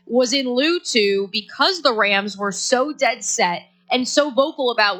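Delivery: normal talking voice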